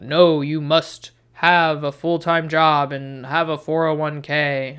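a hint of a stern lecturing voice, slowed; lightly voiced scolding conscience; stern societal pressure voice. Inner pressure scolding her, lightly stern lecturing voice. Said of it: "that societal pressure is like".

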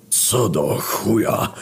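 wheezed slow and strained; panting. A narrator's reading. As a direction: gasp it out, winded from the fall. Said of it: "wysapał Lucyfer". (wysapane, powoli, bez tchu)

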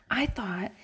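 real whisper, hushed. Real, not acted. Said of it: "I'm whispering now".

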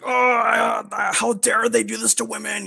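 high, loud mock outrage, hammed up. Mocking a girlfriend's outrage, hammed-up high squeal. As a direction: parody her overblown outrage in a high squeal. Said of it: "I'm like".

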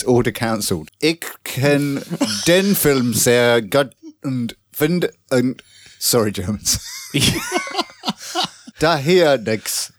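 slow, halting fake German; mock German. Reading Sasha's review in bad mock German. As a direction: stumble through broken German. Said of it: "You sound like you're being pushed down the stairs".

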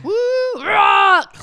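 shouted woo, rock; mock cheer. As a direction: yell it like a rowdy caveman. Mocking husband's excitement.

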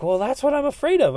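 high, pleading voice of a doubting listener; mock whiny listener. Listener whining back at the podcast host, mock whiny. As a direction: push back like a scared listener making excuses. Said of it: "they're like".

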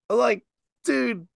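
high, slow disbelief; real disbelief at the fan's boast; incredulous dude really. Real, not acted. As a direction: stretch it up in total disbelief. Incredulous reaction to the fan.

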